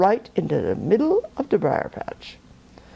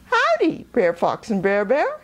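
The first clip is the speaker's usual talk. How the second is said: hollering greeting. Acted. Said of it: "he holler".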